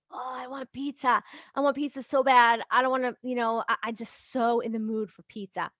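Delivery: dramatic, emphatic longing for food; acted-out hungry yearning; craving. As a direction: gush with an exaggerated craving. Acting out a pizza craving.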